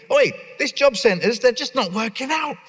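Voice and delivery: put-on not-posh English accent. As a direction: play it as a plain-spoken bloke, nothing posh about it. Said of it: "that isn't a very posh Henley accent".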